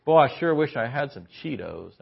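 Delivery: passive-aggressive hint. Retold or imitated. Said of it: "they're always kind of grinding".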